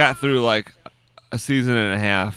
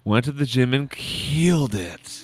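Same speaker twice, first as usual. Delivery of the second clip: mock hype; slower than usual. Mocking friend's boast.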